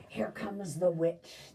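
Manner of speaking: slow, breathless whisper. Acted. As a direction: hush it like kids afraid of the witch. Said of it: "they whispered".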